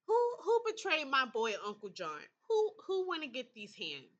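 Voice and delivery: playfully ready to fight; sassy threat. Real, not acted. Player defends her boy Thomas with a sassy mock threat.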